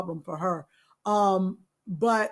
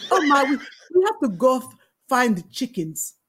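louder, higher, laughing Botswanan accent; 4 semitones higher, 5 dB louder than usual. Shown as a demonstration. Friend redoes her audition line, Botswanan accent. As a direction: stumble through a Botswanan accent with amusement. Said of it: "How did you do your accent".

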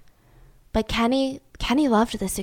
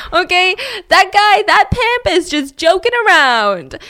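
dismissive dad; 8 semitones higher, 6 dB louder than usual. Acted. Dad dismisses threat again.

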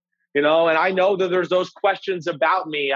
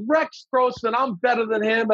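retold pissed-off disbelief; 6 semitones higher than usual. Passed-over quarterback reacting to rival's pick, indignant. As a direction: scoff at the rival picked ahead of you. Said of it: "I'm, I'm pissed".

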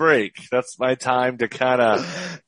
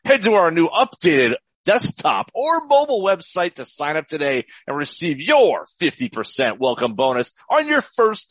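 morning zoo radio voice; 5 semitones higher than usual. Acted. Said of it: "I'm gonna do this morning zoo, morning zoo radio here".

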